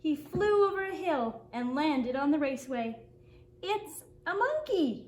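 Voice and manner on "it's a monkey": excited yell. A narrator's reading. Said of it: "yelled a boy".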